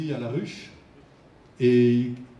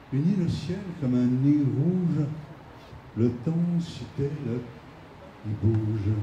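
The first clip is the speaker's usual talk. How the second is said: poem recitation; 3 dB quieter than usual. Acted. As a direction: recite it softly, letting each verse hang. Reads Aragon's poem aloud.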